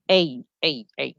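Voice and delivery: এই as a separate "ay" glide; spelling-letter A. Shown as a demonstration. Teacher drilling the letter name in spelling, gliding এই. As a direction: repeat এই evenly, gliding from e to i. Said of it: "উচ্চারণটা বলবেন এই".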